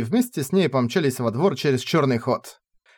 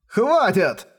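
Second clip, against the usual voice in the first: furious yell; 8 semitones higher than usual. Acted. Rayner snaps in fury.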